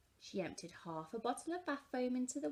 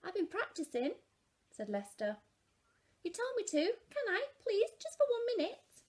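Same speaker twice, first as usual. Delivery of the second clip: put-on high, begging little boy; pleading child; 11 semitones higher, 3 dB louder than usual. A narrator's reading. Lester pleading with Mum, high begging child voice. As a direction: wheedle like a kid after a yes.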